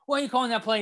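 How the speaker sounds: high, angry yell at the coach; screaming at the TV. Retold or imitated. Fan yelling at the coach on TV, high and angry. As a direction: demand an answer from the screen. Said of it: "I'm already screaming at T V".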